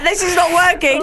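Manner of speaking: exasperated shout. Real, not acted. Frustrated at failed guessing game.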